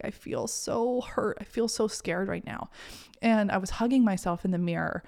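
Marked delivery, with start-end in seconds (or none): 0.0-2.7 retold tearful. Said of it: "I was crying and I was like".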